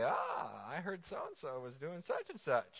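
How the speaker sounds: lightly voiced small-town gossip; a hint of a nosy gossip at the salon. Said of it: "and they say".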